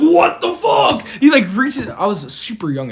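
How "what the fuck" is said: higher, louder, slow, laughing through it; laughing mock outrage; mock angry yell. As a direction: ham up the furious worker. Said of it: "He's like".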